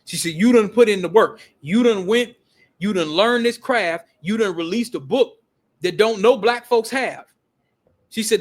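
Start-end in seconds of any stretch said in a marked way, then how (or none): 0.3-7.3 loud, emphatic retold telling-off; mock-indignant lecture, hammering every phrase; imitated indignant scolding. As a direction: punch each achievement like a fed-up sister. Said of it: "She was pissed".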